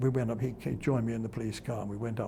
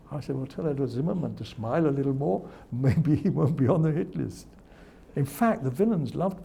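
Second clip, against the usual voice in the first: louder, laughing through the punchline; 3 semitones higher, 7 dB louder than usual. Real, not acted. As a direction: crack up while delivering the joke.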